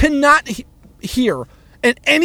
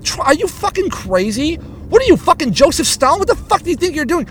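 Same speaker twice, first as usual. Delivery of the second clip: mock exasperated; 5 semitones higher than usual. Exasperated quote at Trump.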